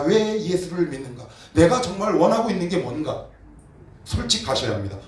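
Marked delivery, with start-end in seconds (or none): none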